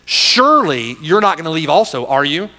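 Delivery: pointed challenge with a tag question; challenging. Acted. Jesus turns to challenge the twelve, challenging. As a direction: press them firmly for an answer. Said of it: "the challenge to his disciples".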